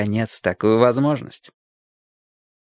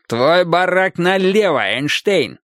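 shouting at trespasser; 5 semitones higher, slower than usual. Acted. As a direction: bark it at his back like a guard. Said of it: "рявкнул охранник ему в спину".

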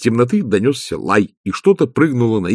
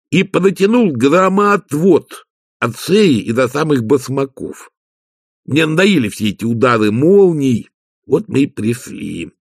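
Igor, eager servant; 5 semitones higher than usual. Acted. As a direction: plod through the explanation as a servant.

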